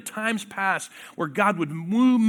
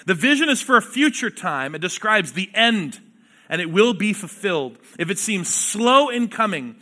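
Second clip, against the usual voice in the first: emphatic Bible reading from the pulpit; scripture reading; 2 semitones higher, 3 dB louder than usual. Acted. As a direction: read the prophet's words with weight. Preacher reads scripture aloud.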